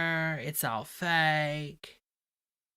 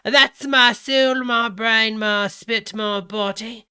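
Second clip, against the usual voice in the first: higher, much louder mock Cockney; British Cockney; 4 semitones higher, 10 dB louder, slower than usual. Rereading his text to followers, in booming mock British Cockney. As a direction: declaim it in hammed-up British Cockney. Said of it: "he's reading it British Cockney".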